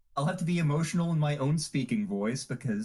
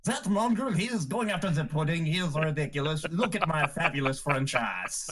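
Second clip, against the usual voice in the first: outrageous French character voice; French accent. Acted. Game master previewing the Saturday cast, French accent. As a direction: put on a hammy French accent. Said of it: "in the French voice".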